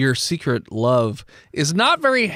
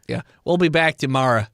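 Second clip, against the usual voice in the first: Boston accent; 3 semitones lower than usual. Shown as a demonstration. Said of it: "Now do your Boston accent".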